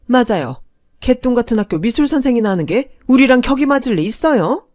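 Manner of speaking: contemptuous sneer. Acted. Mother sneering on leaving.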